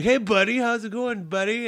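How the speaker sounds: high, chummy buddy voice; imitating a breezy, upbeat greeter; mock friendly greeting. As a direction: bluff with an overfriendly hello. Bluffing past a forgotten name.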